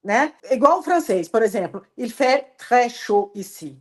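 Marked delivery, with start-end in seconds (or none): 2.0-3.8 slow, even tune on "Il fait très chaud ici"; flat French. Shown as a demonstration. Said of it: "também é muito flat". (francês sem emoção, "Il fait très chaud ici" bem reto)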